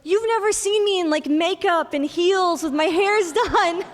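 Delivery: high-pitched, amused imitation breaking into laughter; mom laughing. Mom teases the nurse who missed her dressed up, high and laughing. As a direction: talk through rising giggles as the mom. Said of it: "my mom just burst out laughing".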